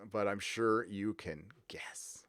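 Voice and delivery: sly whispered aside; whispering. Real, not acted. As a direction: whisper it knowingly. Conspiratorial aside.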